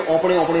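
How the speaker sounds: اوپنے with a Punjabi rounded o at the start; Punjabi-flavoured اوپنے, o in place of a; Punjabi pronunciation. Shown as a demonstration. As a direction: say اوپنے the Punjabi way, opening on 'o'. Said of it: "Punjabi میں اپنے کو کہتے ہیں اوپنے".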